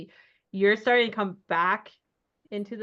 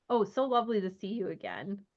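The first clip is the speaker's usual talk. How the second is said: mild Irish lilt; 4 semitones higher, 7 dB louder than usual. Acted. GM voices the assistant.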